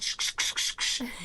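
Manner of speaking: sharp hissed marker strokes, no voice; imitated pen scratching. Imitating the pen signing executive orders, scratchy noise. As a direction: mimic a fat pen signing with quick scratchy shushes. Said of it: "fat, black pen going".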